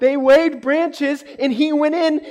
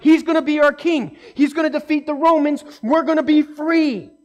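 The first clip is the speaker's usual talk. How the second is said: louder, eager hopeful cry; excited crowd; 5 semitones higher, 4 dB louder than usual. Retold or imitated. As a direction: voice the crowd's thrill at their new king. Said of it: "The people there are so excited".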